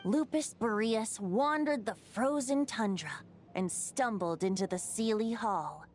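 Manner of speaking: measured, lyrical tale-telling; bardic storytelling. Acted. Bard tells the old wolf's story to the travelers, lyrical. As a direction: recount a legend like a wandering minstrel.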